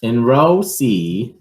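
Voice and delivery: plain reading voice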